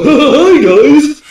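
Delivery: put-on very high, loud childlike greeting; cheery kid voice, creepy in the dark; goofy childish voice. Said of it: "Make it sound goofy and childish".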